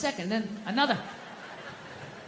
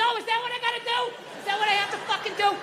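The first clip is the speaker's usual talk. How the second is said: very high sarcastic yell at the TV; screaming at the TV; 12 semitones higher than usual. Retold or imitated. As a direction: lose it at the smart TV, mocking. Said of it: "Don't scream like that".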